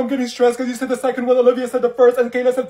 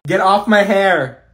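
slow annoyed demand; 5 dB louder, much slower than usual. Acted. Annoyed, hair pulled.

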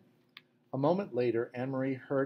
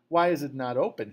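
louder, an angry demand; 3 semitones higher, 8 dB louder than usual. A narrator's reading. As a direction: push hard for an answer. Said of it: "he demanded".

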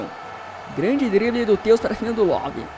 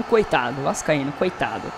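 mock pity; 7 semitones lower, 5 dB quieter than usual. Real, not acted. Pitying a Vasco fan.

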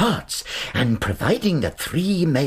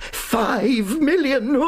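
gloating; much slower than usual. Acted. Gloating over the fortune.

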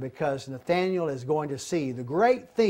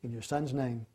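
closing prayer; 4 semitones lower than usual. Acted.

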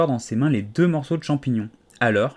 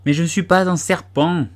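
high, louder indignant protest; 6 semitones higher, 5 dB louder than usual. A narrator's reading. Alice protesting to the pigeon, indignant. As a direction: object sharply, offended. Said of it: "riposta Alice d'un ton indigné".

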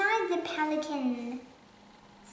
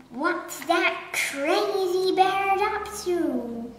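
louder puzzled exclamation; cry; 2 semitones higher, 5 dB louder than usual. Acted. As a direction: call out across the lawn. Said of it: "cried the Duke".

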